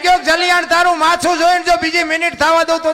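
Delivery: high, loud, fervent oath; passionate vow. Retold or imitated. Jalaram swearing to the sadhu, high and loud. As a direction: swear it on your mother's milk. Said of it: "ઈ કે".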